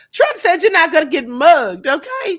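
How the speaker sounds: laughing loudly through the words; cracking up mid-sentence. Real, not acted. Vlogger laughing at Trump's promise, real laughter. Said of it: "I am cracking up".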